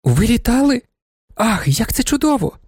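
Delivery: thrilled, breathless wonder; a young lady hearing he once flew, delighted; excited exclamation. Acted. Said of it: "вигукнула панна Феліція".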